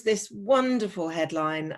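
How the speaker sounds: lightly ironic enthusiasm; slightly sarcastic. Real, not acted. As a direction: say it with light sarcasm, as false praise. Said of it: "I am being slightly sarcastic here".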